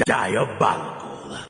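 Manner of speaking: slow, stretched out in disbelief; drawn-out exclamation. Real, not acted. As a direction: savor the word in disbelief. Reacting to outrageous stream clip.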